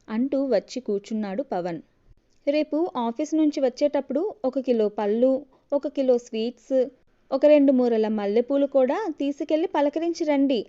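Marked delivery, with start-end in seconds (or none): 2.5-10.6 sarcastic, lightly angry instructions; a jealous wife's understated anger; mildly angry. Acted. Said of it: "అంది కోపంగా". (కొంచెం కోపంగా, వ్యంగ్యంగా)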